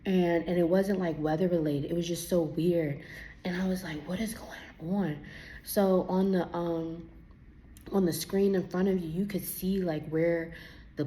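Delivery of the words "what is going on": puzzled whisper. Retold or imitated. Confused in turbulence.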